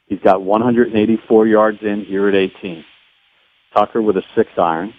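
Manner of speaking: measured, lightly hushed golf call; golf commentator. Pretend. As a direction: call the shot like a Masters broadcaster. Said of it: "I just wanna hear you do me in the golf voice".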